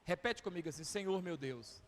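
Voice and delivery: mais baixo e devagar, em tom de oração; oração conduzida. Acted. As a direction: conduza a igreja em oração, com calma. (pastor conduzindo a igreja em oração, suave e lento)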